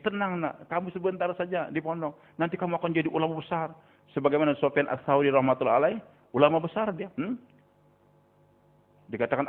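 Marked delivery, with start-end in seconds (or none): 0.0-3.7 put-on softly reassuring, as to a child; acted tender reassurance; soothing parent. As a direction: comfort the child with a gentler, softer voice.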